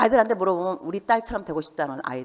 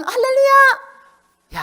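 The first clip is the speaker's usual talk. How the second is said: very high, loud, slow drawn-out hallelujah; exaggerated pious hallelujah; 10 dB louder, much slower than usual. Mother at home Bible meeting greeting churchgoers, hammed-up and very high. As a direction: stretch it out like a showy church lady.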